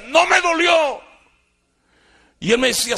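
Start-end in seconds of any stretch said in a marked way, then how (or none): 0.1-1.1 high, loud, slow defiant cry; defiant yell. Retold or imitated. Son to beating father, high loud defiant yell. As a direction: fling it back at him with hatred.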